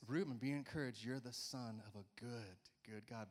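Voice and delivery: softly, fading away to a hush; mean every word, tenderly; sincere child's blessing. Retold or imitated. Pastor voicing daughter's heartfelt note, soft and sincere. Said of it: "she just meant it".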